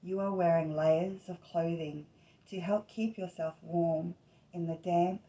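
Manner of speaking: unhurried meditation voice, short phrases with long pauses; guided meditation. Acted. Host leading listeners into Inanna's underground journey, guided meditation.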